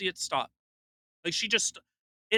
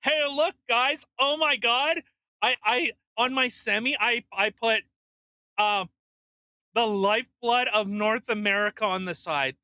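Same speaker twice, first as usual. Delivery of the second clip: high, loud show-off voice; mock excited bragging; 5 semitones higher, 5 dB louder than usual. Trucker showing off a semi to followers, mock excitement. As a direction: gush like a clout chaser to the camera. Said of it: "what if I went to work and like".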